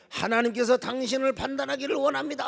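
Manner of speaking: mock a congregation challenging the preacher; confrontational. Congregation confronting their pastor, accusing. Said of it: "따지고 달라들면".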